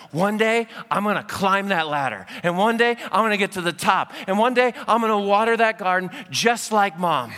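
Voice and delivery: mock-heroic toddler vows, gaining volume; imagined eager toddler. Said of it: "imagine his little two-year-old brain".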